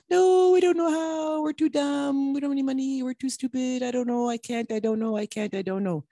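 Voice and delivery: high mocking whine that fades down to a mutter; hammed-up fearful excuses, high at first and then trailing off; mock whiny excuses. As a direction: mimic the scared self-doubting voice, shrinking as it goes.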